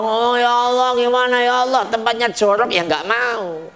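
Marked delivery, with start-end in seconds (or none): 0.0-2.7 complaining customer. Retold or imitated.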